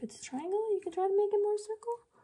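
voice pitched way up high. Explaining how to work on cell structure, talking in a high voice. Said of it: "I don't know why I'm talking in a high voice".

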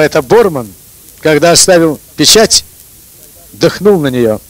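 ordinary talk

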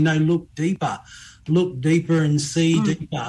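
ordinary talk

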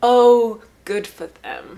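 dry sarcastic tone, with a loud oh. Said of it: "Sorry, the sarcasm comes out".

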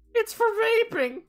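put-on high squeaky teenage voice. Voicing a character's reply, doing the squeaky teen from The Simpsons. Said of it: "do squeaky voice teen from The Simpsons".

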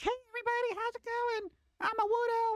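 squeaky, very high-pitched chirp. Complaining about annoying character voices, mimicking one in a high, squeaky voice. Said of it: "in a high, squeaky voice where they're like".

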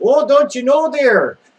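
shrill, very loud, high put-on Minnesota accent. Listing American accents people could make fun of, Minnesota accent. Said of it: "That's more Minnesota".

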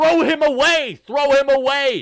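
loud, high, frustrated shouting. Retelling watching a walk on TV: imitating own screaming at the TV. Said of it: "I'm screaming at my T V".

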